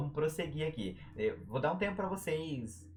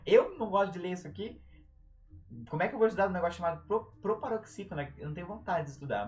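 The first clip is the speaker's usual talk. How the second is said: higher, exasperated student complaint; freaking-out student; 5 semitones higher, 4 dB louder, faster than usual. Acted. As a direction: play a student losing it over grammar. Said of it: "ele, ele surta".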